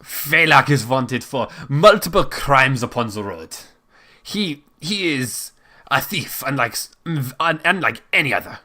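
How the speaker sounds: put-on lightly German-accented baron; halting European-accented speech; attempted German accent. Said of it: "the Baron continues his speech".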